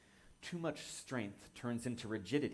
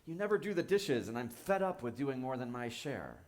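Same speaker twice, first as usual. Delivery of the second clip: frustrated complaint; 3 semitones higher, 4 dB louder than usual. Acted. Roommate complaining about the dishes, frustrated and loud. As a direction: let the frustration spill out at them. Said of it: "comes to us frustrated and says".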